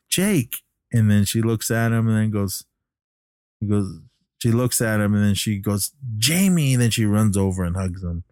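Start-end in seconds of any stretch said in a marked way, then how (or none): 0.1-0.6 high, falling exclamation; retold amazed recognition. Girl recognizing her lost love, mock amazed cry. 6.2-6.7 high cry falling at the end; retold amazed recognition. Girl runs to her returned love, mock amazed cry.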